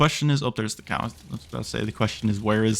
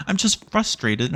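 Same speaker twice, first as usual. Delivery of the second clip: "I'm just frustrated" said slowly, higher, drawn out; drawn-out frustration; 4 semitones higher than usual. Real, not acted. Player repeating his frustration to viewers, slow and drawn out. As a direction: stretch it out, exasperated.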